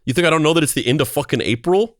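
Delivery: affronted New York tough guy, hammed up; angry Paul Sorvino. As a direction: imitate someone insulted at being taken for a fool. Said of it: "extremely angry about everything all the time".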